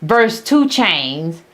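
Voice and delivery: a light mock sermon, slow and drawn out; mock preacher. Mocking the commentator with a lightly voiced, slow preacher sermon. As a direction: imitate a preacher calling the congregation to scripture. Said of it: "probably talking about".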